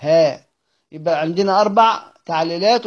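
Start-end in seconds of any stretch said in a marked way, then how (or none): 0.1-0.5 ها said as an open "haa"; fatha on the ha. Shown as a demonstration. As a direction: isolate ها with an a vowel. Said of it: "وقرأ بفتحها". (ها بفتح الهاء)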